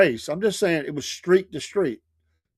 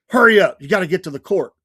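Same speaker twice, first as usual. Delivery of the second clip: urgent call; 2 semitones higher, 7 dB louder than usual. Retold or imitated. Friends calling him to the court.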